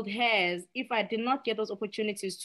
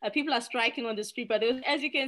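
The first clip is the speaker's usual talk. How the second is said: mock news reporter; 5 semitones higher than usual. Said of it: "and they say".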